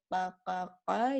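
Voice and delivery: deep qaf from the back of the tongue, qa; Arabic qaf demo. Shown as a demonstration. Teacher showing learners the qaf, deep and heavy. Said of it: "you can just say".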